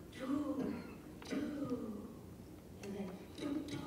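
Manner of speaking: do, do, and then do, do, softly beat out; quiet rhythm tapping. Shown as a demonstration. Teacher softly tapping out the rhythm felt in the gut. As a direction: murmur the stress beats. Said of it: "in your own body, you're going".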